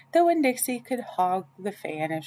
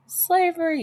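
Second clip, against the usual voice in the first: emphatic high slavery; 11 semitones higher, 4 dB louder than usual. A narrator's reading. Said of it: "said Miss Franny".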